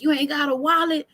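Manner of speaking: high, quick teasing question; a grandpa's amused disbelief; mock surprise. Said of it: "He's like".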